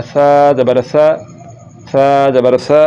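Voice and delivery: lisped tha on सा; no whistle. Shown as a demonstration. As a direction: spell सा ज़बर सा without hiss. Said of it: "सीटी के बाद के बगैर".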